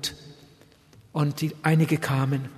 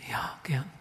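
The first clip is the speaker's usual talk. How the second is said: whisper; 9 dB quieter than usual. Retold or imitated. Wife's hushed reply.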